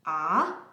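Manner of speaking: "Ah" dipping low then rising; third tone. Shown as a demonstration. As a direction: drop "Ah" down low, then bring it back up. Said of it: "The third one".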